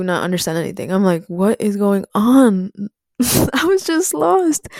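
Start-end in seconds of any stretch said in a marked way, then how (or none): 1.3-2.7 drawn-out, confused what is going on; slow bewildered question. Retold or imitated. Kid in her first week at school, slow and bewildered. 3.2-4.7 laughing it out, higher. Real, not acted. Remembering her first school week, laughing.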